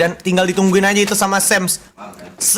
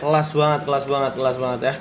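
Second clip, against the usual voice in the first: low, soft repeated praise; awed murmur; 7 semitones lower, 6 dB quieter than usual. Real, not acted. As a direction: drop down low in quiet admiration. Awed caster after the big play. (gumaman kagum yang pelan)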